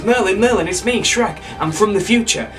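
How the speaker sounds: high-pitched, excited plea; urgent announcement. Acted. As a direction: burst in with urgent news. Shrek barges in urgently.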